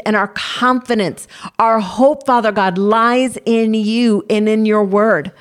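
earnest spoken prayer, steady and measured. Acted. Prayer continues.

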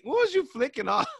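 high, pushed, put-on voice; playful mock challenge; artist voice. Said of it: "they will say".

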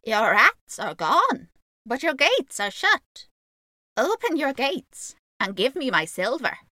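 loud, slow demand in magpie voice; calling out. A narrator's reading. Magpie man demands his pay from the town, calling out. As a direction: call up at the shut gates, drawing the words out. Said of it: "called the magpie man".

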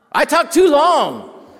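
slow, high, loud self-mocking wail; mock preacher cry. Real, not acted. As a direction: ham up confessing a long talk. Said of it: "I get to preaching".

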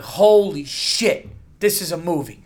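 very slow, drawn-out holy shit; mock amazement. Imagining his reaction if Thor died, drawn-out amazement. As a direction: savor the shock of it. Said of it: "I'd be like".

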